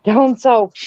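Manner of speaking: Canadian down south. Retold or imitated. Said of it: "when I've been down south".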